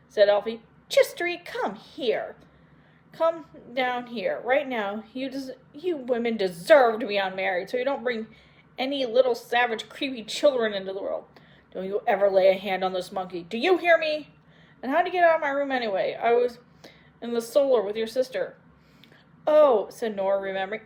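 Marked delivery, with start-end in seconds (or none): 0.9-18.6 angry scolding. Acted. Elphaba scolding the sisters. 19.5-19.9 high, loud startled oh; a sharp gasp of remembering; sudden realization. Acted.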